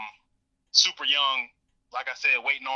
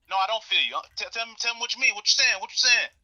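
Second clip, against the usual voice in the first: higher, pushy mock challenge; retold defiant retort; 7 semitones higher than usual. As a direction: press him to explain, half-provoking. Dad pushing back in argument.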